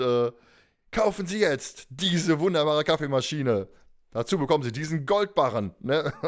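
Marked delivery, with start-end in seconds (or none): 0.9-5.7 chipper 1950s ad. Retold or imitated. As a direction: sell it like an old commercial. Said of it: "richtig spannungsgeladen".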